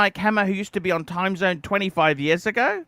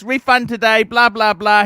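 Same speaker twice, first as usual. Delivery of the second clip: mock angry demand; 4 semitones higher, 6 dB louder than usual. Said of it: "gets angry".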